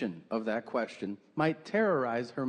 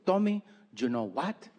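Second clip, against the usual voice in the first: put-on light Peruvian accent, setting up a jab. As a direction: mom about to insult her son. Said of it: "she's from South America, Peru".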